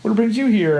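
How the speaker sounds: sweet mom. Retold or imitated. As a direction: imitate a sweet mother greeting a visitor. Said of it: "her mom's very sweet".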